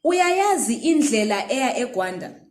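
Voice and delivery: Uyayazi indlela eya eGwanda with stress on Uyayazi; example question. Shown as a demonstration. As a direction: ask the learner clearly. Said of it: "It's a question".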